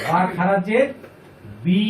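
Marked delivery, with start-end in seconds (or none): 1.6-1.8 "বি" with a long held i; one-alif madd. Shown as a demonstration. Teacher showing a khara zer, "বি" drawn out long. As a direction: stretch out the vowel of "বি". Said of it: "এক আলিফ পরিমাণ".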